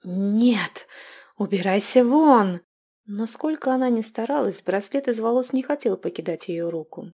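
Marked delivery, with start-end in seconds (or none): 0.0-2.6 loud desperate cry; shouting. A narrator's reading. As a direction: yell in panic. Fights off the living hair. (отчаянный крик)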